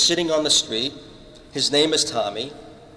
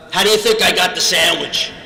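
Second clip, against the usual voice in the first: a mild mock yell, louder; retold yell; 4 semitones higher, 5 dB louder than usual. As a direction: call the retort back lightly raised. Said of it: "he yelled back at me".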